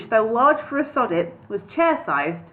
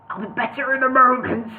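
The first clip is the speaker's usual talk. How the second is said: croaked; 3 semitones higher than usual. Acted. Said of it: "he croaked".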